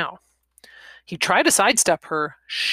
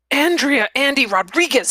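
loud, high-pitched outburst; startled blurt; 9 semitones higher, 6 dB louder than usual. Acted. Old man recognizing the woman confronting him, startled blurt. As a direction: blurt the name out in shock. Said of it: "he blurted out".

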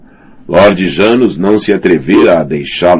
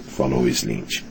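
plain reading voice

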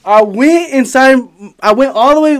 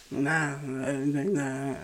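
dazed mumble; 7 semitones lower, 19 dB quieter, much slower than usual. Retold or imitated. Dazed stranger answering.

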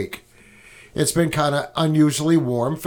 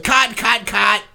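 drama teacher; 7 semitones higher, 3 dB louder, slower than usual. Retold or imitated. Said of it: "drama teacher said".

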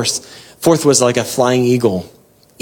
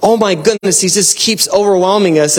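higher-pitched, overwhelmed amazement; overwhelmed awe; 6 semitones higher than usual. Acted. Angels seeing him for all he is, overwhelmed. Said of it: "when they're overwhelmed".

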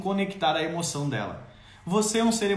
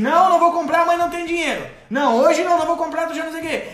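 loud, higher, impatient no; mother's sharp refusal; 7 semitones higher, 5 dB louder, faster than usual. Acted. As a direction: cut the kid off firmly. (mãe recusando alto e impaciente)

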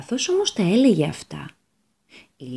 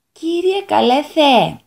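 higher, louder, slow eager address; the devil tries to please; 6 semitones higher, 7 dB louder, slower than usual. Acted. Devil greets God eagerly. (ο διάβολος πρόθυμα, δυνατά και αργά)

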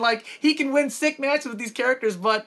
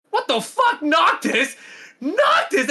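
higher, outraged disbelief; mock outrage; 5 semitones higher, slower than usual. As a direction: yell at the screen in mock disbelief. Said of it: "He's like".

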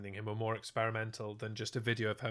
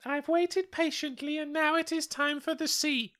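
stately queen voice, pitched up; put-on queen voice. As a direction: play a haughty queen demanding the sea. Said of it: "She doesn't sound like that. I don't know why I'm talking like that".

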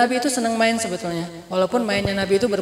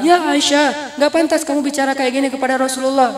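mildly indignant, raised-pitch scolding; angry father's rebuke; 4 semitones higher than usual. Retold or imitated. Father scolding daughter for her words, mildly angry. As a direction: scold her with a touch of anger. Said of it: "Terus Abu Bakar yang marah".

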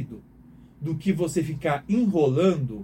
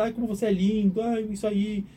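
cooing praise; 6 semitones higher than usual. Retold or imitated. Praising a dog that wags.

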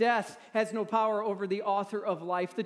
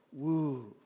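wince woo; 5 semitones lower than usual. Shown as a demonstration. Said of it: "sometimes we just kinda go".

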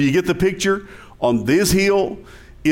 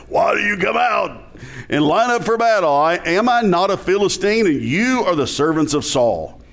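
mock giant shout. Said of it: "I don't know if that's the way he talked".

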